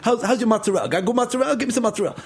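hammed-up Italian-American New York accent; code-switched New York accent. Native proving himself to old-school butcher, New York accent. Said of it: "I find myself code switching".

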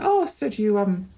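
a light, sweet reassurance; tender high reminder to a forgetful husband; sweetly. Retold or imitated. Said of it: "my mum just very sweetly said".

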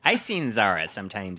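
"I've seen Zara sometimes" in a light mock Wisconsin accent. Telling friends about Zara's coffee habit, in a light Wisconsin accent. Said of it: "sorry, my Wisconsin accent".

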